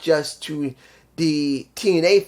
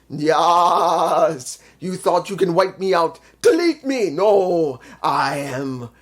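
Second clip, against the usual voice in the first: mock-dramatic wrestling promo, slowed in places; a hint of Matt Hardy's theatrical promo voice; imitating Matt Hardy. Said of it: "And Matt says".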